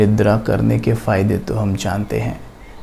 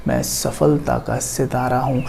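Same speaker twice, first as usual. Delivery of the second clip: calming affirmation; 5 dB quieter than usual. Shown as a demonstration. Demonstrates a success affirmation.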